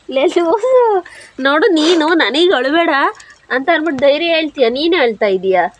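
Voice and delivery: high, loud, affectionate scolding; teasing scold. Real, not acted. Wife chiding the husband who comforted her, teasing scold.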